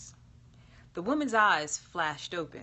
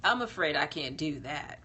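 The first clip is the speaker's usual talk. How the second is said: contrite; 3 semitones lower than usual. Acted. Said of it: "her voice contrite".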